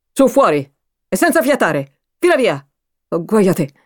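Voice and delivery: stern order. Acted. Mother drives daughter out.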